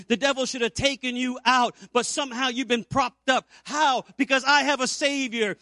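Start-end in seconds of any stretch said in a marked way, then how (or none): 3.6-5.6 called out. Real, not acted. Preacher calls out to congregation.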